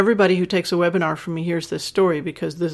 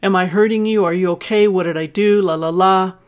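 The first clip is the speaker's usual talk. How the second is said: louder, flustered rush of worried questions; mock freaked-out panic; 5 dB louder than usual. Shown as a demonstration. Partner panicking over tears, mock freaked-out and louder. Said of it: "get all freaked out".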